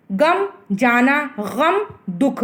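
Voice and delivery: गम said slowly with a throaty gh; नुक्ते वाला ग़म धीरे से; slow careful pronunciation. Shown as a demonstration. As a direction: drag out गम with a gargled g. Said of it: "यहाँ पर बिंदी लगने से क्या होता है".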